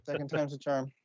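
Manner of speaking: hushed whisper, almost no voice. Real, not acted. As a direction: whisper it so she can't hear. Sneaking before wife hears.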